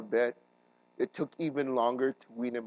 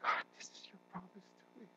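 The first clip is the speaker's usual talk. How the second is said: higher, desperate plea to God; pleading prayer; 10 semitones higher, 5 dB quieter than usual. Retold or imitated. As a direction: beg God not to take your son. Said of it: "And I was praying".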